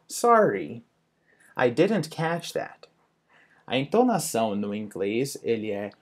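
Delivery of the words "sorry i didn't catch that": "Sorry" drawn out and rising, then slow "didn't catch that"; slow model tune with "didn't" higher; demonstrated intonation. Shown as a demonstration. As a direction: pause after "Sorry", lift "didn't", taking it slowly. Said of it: "a entonação é muito importante".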